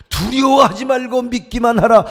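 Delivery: loud, rising proclamation. Acted. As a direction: declare it boldly the second time.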